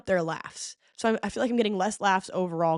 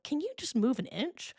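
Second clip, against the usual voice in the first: exasperated; 4 dB quieter than usual. Retold or imitated. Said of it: "I'm like".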